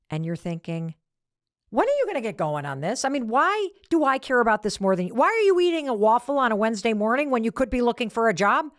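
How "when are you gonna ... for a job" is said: inner rant, pitch lifting as it builds; mildly irritated questions, growing more insistent; rising anger. Acted. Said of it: "your anger is rising".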